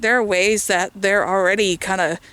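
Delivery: slightly winded while walking; out of breath. Real, not acted. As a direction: talk a little short of breath. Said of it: "I'm getting out of breath".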